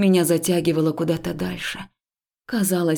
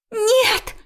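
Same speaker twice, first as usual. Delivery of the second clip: put-on high, loud girlish cry; a frightened girl's defiant cry; desperate refusal; 4 dB louder than usual. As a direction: shout the refusal. Friend refuses.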